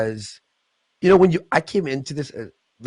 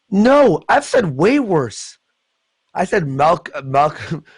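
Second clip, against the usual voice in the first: mock defiant streamer; 4 semitones higher, 4 dB louder, slower than usual. Voicing the streamer's reply.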